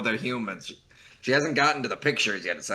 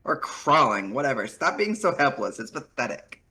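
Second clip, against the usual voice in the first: put-on Valley Girl voice; 3 semitones higher than usual. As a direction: play a smug Valley Girl. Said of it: "very good Valley Girl voice".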